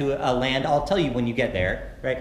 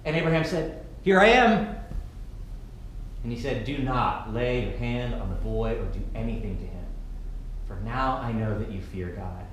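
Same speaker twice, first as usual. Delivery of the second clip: scripture reading. Acted. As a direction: read the passage gently to the congregation. Reads the scripture passage.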